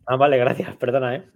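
talking with a mouth full; chewing while speaking. Real, not acted. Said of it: "como estás con la boca llena, que sigues masticando".

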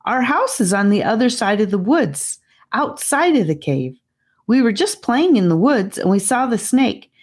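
put-on anxious boy explaining. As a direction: rush through the explanation, trying to be believed. Gabe explains.

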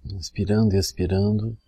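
measured meditation phrase with long pauses; spoken meditation cue, evenly paced; guided meditation demo. Shown as a demonstration. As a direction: lead the breathing calmly, leaving long silences. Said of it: "assim, a gente diz".

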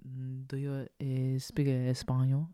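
slow, hesitant mock questioner; halting question. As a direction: drag out a careful, halting question. Imitates people asking him haltingly.

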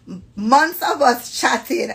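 slow, careful Jamaican read-aloud; deliberate Jamaican-accented storytelling; proper Jamaican accent. Acted. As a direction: read it measured, in a polite Jamaican lilt. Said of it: "laughing 'cause of how I'm reading".

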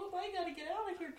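frantic rushed fish voice; panicked fish. Pretend. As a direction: rush it out in panic.

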